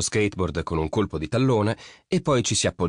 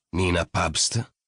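nome scandito lentamente; domanda solenne; much slower than usual. A narrator's reading. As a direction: chiedi il nome con calma solenne. Mercurio chiede la risposta. (nome pronunciato lento e solenne)

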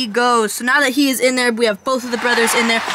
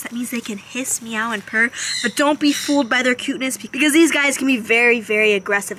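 ordinary talk

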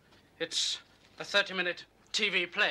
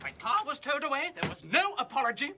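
rising outrage, pitch climbing higher; indignant rant; 6 semitones higher than usual. Acted. Writer berating the policeman over his towed car, indignant rant. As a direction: berate the copper, building to a high sarcastic peak.

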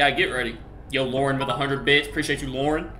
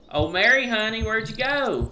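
calling out; 8 semitones higher than usual. Pretend. Husband hunting through the house for Mary, calling out. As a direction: sing out for her, stretching the last word.

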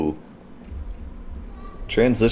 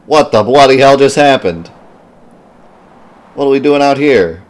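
higher, louder hammed-up British voicing of the hero; a light put-on British accent for the character; mock British accent; 6 semitones higher, 5 dB louder than usual. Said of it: "I'm not doing a British or Australian accent".

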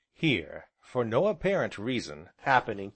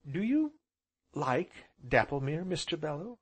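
lightly voiced heroine, raised pitch at first; heroine's question; 5 semitones higher than usual. A narrator's reading. Heroine asks her guest about her home, lightly voiced. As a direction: ask politely, starting high.

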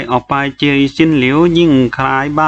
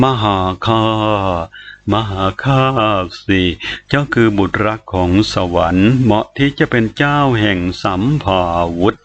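luring spirit; 5 semitones lower than usual. A narrator's reading. Sword spirit luring the boy.

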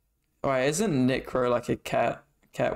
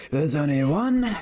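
Thomas Shelby impression; 2 semitones higher, 5 dB louder than usual. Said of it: "so hard to do his fucking accent".

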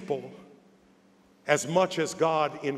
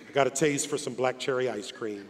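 laughing aside; 6 semitones lower, 5 dB quieter, faster than usual. Real, not acted.

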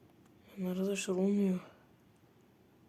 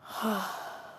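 exasperated sigh. Real, not acted. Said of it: "sinir krizi geçeceğim".

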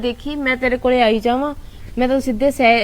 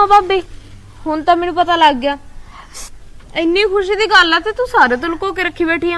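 emotional joy; 4 semitones higher than usual. Acted. Overjoyed sister-in-law, cry heard.

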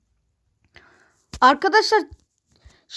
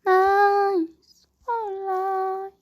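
English cheer; 7 semitones higher, much slower than usual. Pretend. English cheer after a goal.

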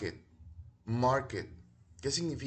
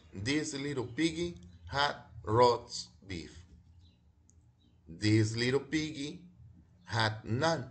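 reading the rhyme aloud. Shown as a demonstration. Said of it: "yo se las voy a leer en voz alta".

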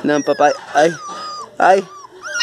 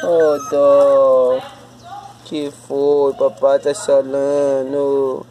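slow, drawn-out cooing sympathy; much slower than usual. Real, not acted. Pitying the crying little one. (com dó, falando arrastado)

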